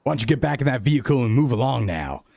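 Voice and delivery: lightly voiced stern hero moving her along; stern cop character. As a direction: order the stranger on her way, firmly. Jordicus sends Daya away.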